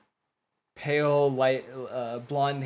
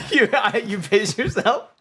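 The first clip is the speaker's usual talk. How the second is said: incredulous; 8 semitones higher, 6 dB louder than usual. Acted. NPC reacts incredulously.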